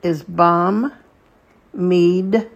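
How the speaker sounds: bam, mid read as separate beats with the shva closing mid; syllable by syllable; split into syllables. Shown as a demonstration. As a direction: sound out bam, mid slowly. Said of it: "So the first syllable in Bamidbar".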